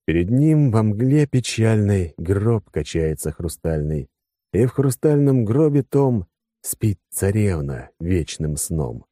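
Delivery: slow, pensive declaiming; poem recitation. Acted. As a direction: recite it thoughtfully, slowly. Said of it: "Продекламировал я с задумчивым видом".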